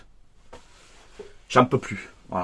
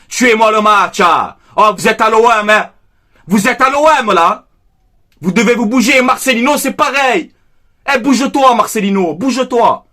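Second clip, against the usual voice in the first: angry yelling at team; 4 semitones higher than usual. Real, not acted. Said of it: "Désolé si je crie un peu".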